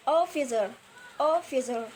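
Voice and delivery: "officer" stressed on the first syllable; stress placement. Shown as a demonstration. Teacher showing stress in words ending in er, "officer" stressed on its first syllable. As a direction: lean on the opening syllable of "officer". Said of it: "stress, a placement".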